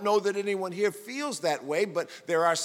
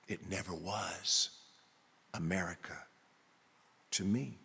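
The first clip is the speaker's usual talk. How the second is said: answering voice again; 12 semitones lower, 11 dB quieter than usual. Acted. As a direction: let it sink, quietly resigned. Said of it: "And the voice responds again".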